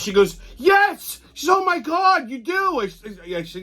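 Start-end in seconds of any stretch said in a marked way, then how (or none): 0.6-2.8 imitating her high, thrilled reaction; excited recognition. Wife telling him he looks like Tyrus, excited. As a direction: gush in a much higher voice, mimicking her.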